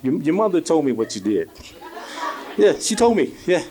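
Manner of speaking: menacing dad, deadpan; stern dad. Retold or imitated. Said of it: "he's like, he's got the attitude".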